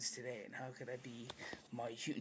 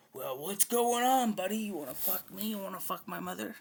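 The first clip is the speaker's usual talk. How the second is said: mock-friendly taunt; 6 semitones higher, 10 dB louder than usual. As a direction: greet the insult with exaggerated glee. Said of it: "I fucking go like".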